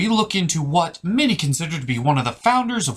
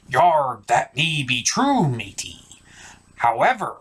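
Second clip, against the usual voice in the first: pirate voice. Acted. Pirate replies.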